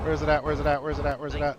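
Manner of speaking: searching in exasperation; impatient. Real, not acted. Hunting for a setting in the sim.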